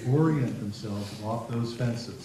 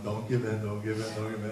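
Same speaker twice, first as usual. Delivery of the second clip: inner voice; 2 semitones lower, 5 dB quieter than usual. Retold or imitated. Therapist silently urging mom to hold firm, inner voice. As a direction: repeat it softly, as a thought to yourself. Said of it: "in my head".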